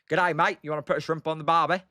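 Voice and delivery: hammed-up Aussie, quick on the barbie line; mock Australian accent. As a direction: tease with a cheesy Australian accent. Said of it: "I definitely don't sound Australian".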